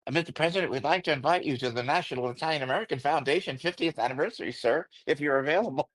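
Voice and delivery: nervous, overly formal, rushed; stiff formal blurt. Retold or imitated. Host inviting the president on the phone, stiff and formal. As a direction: blurt it out stiffly like a starstruck guest. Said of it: "It just came out".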